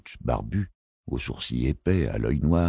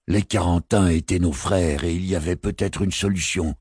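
raised, insistent protest; insistent anger; 5 semitones higher than usual. Acted. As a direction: push back, bristling with anger. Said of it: "insista le sorcier, la barbe hérissée de colère".

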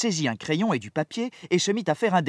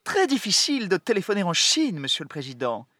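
general's voice; 3 semitones higher than usual. Acted. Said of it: "dit le général des transmissions".

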